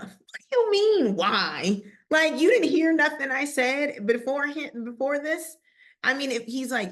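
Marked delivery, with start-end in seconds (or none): 0.0-5.6 higher and louder, losing patience; exasperated outburst. Pretend. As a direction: snap back in disbelief at the people. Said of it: "I would have lost my stuff".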